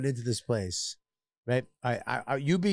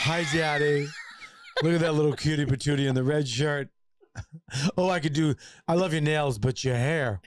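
playing drag queen. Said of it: "turn into a drag queen".

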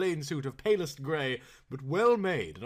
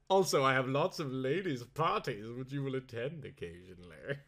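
lordly Earl; 3 semitones higher, 3 dB louder than usual. Acted. Earl instructs.

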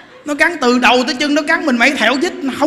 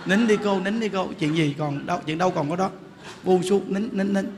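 much softer, gentle coaxing to stop crying; soothing hush; 2 semitones lower, 5 dB quieter than usual. Retold or imitated. Monk calming a weeping woman in the temple, soft soothing hush. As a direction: hush her tears tenderly, barely above a murmur.

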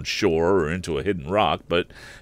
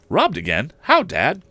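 Robbed again jumps much higher and louder; stunned son disbelieving; shocked; 10 semitones higher, 5 dB louder than usual. Acted. Son reacts to his father's robbery, stunned and much higher.

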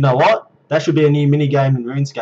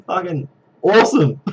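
laughing; 4 semitones higher than usual. Real, not acted. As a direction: laugh through the words. Delighted at the event.

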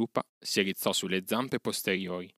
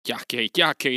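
scornful aside; 5 semitones higher, 7 dB louder, slower than usual. Acted. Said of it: "disse Mowgli fra sé".

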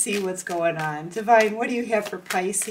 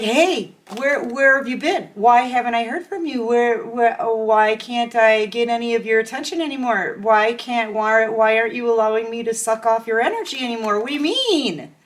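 louder, pleading, whiny imitation; mock whiny ex; 4 dB louder than usual. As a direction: lightly play the needy person begging for attention. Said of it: "they're gonna be like".

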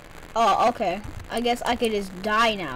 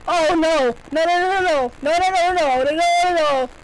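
panicking; 4 semitones higher, 4 dB louder than usual. Real, not acted. Panicked repeated no.

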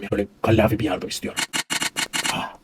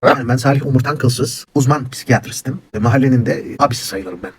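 put-on old man character; 2 semitones higher, 4 dB louder than usual. Old psychiatrist character introduces himself.

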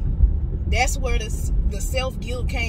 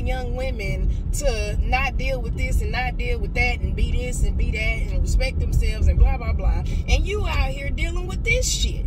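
higher, louder angry rant at herself; self-scolding rant; 3 semitones higher, 4 dB louder than usual. Retold or imitated. Scolding herself for dealing with toxic shit, angry. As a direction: tear into yourself, furious and disgusted. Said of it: "I was literally sitting there like".

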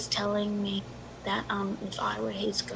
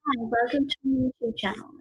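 a touch higher and louder channel intro; mock YouTuber greeting; 4 semitones higher, 6 dB louder than usual. Would-be YouTuber greeting imagined viewers, mock intro. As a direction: put on a perky vlogger hello.

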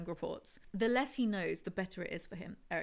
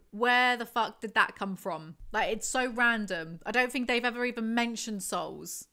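baffled outburst; 3 semitones higher, 5 dB louder than usual. Real, not acted. Baffled rant.

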